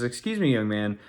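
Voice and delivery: politely imitating wife, lifted on "Excuse me"; nice, polite. Wife politely approaches a kid in the parking lot, retold nicely. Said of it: "I mean, she's nice".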